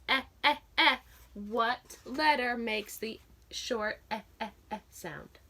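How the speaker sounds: clipped repeated "eh, eh, eh" short e; short e sound. Shown as a demonstration. Teacher modelling "eh" with hand motions for the class. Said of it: "remember our hand motions".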